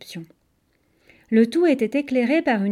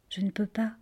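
soft, whispered refusal; gentle murmur; 8 dB quieter than usual. A narrator's reading. Ariane leaves her little sister behind, whispering gently. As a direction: let it fall to a gentle whisper. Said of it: "et murmura doucement".

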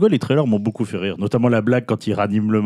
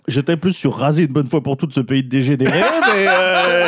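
laughing through the words; chuckling while speaking; 4 semitones higher than usual. Real, not acted. Laughing at own extreme joke.

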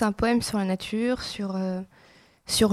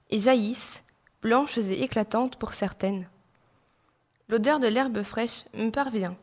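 measured poem reading with pauses between phrases. Acted. Student reads a poem for a radio show, measured recital. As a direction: read it line by line, letting each image settle.

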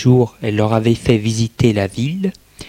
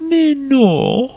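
Hélène's voice. Acted. Hélène reassures Katia.

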